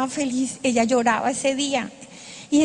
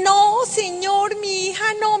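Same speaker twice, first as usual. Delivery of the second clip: weeping plea; 5 semitones higher, slower than usual. Retold or imitated. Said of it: "Mi padre llorando como un bebé".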